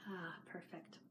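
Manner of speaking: soft sigh after a hot sip; sipping hot tea. Real, not acted. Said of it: "going to have a quick sip of tea".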